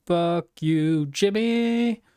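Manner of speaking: rising yell at Jimmy; shouted curse. Real, not acted. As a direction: yell the name out. Cursing Jimmy.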